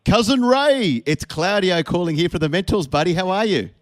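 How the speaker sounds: high, bright-eyed hello to a friend; excited greeting. Real, not acted. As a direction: greet him like a long-lost cousin. Greeting caller with big enthusiasm.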